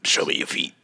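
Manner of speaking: breathy teasing whisper. Pretend. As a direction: whisper it as a joke. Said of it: "I'm just playing".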